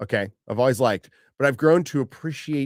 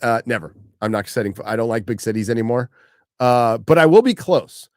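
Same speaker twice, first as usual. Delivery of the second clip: ordinary delivery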